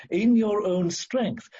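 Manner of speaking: "in your own strength" slow, each word weighted; emphatic stress. Real, not acted. Preacher drives the point home, stressing "in your own strength". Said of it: "I emphasize those words".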